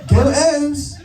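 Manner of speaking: high-pitched comic starlet voice; Marilyn Monroe character. Acted. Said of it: "my character, Marilyn Monroe".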